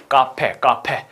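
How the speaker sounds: 카페 said the Korean way, with a Korean p sound; 카페 in plain Korean pronunciation, no English F; Korean-style 카페. Shown as a demonstration. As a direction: say 카페 as a Korean loanword. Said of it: "알아듣기 힘듭니다".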